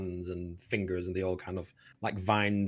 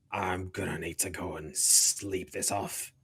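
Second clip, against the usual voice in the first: groggy werewolf. Acted. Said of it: "he growls at you".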